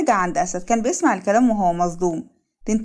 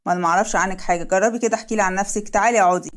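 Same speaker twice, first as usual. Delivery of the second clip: coolly detached, slightly lowered voice; understated cold indifference; 2 semitones lower than usual. Acted. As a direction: play it cool and unbothered. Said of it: "راح قعد ببرود".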